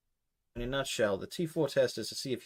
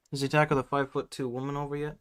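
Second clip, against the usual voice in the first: wrong character voice; 2 semitones higher, faster than usual. Acted. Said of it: "I'm getting my fucking voices mixed up".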